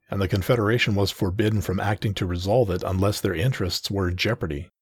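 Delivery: ordinary delivery, nothing marked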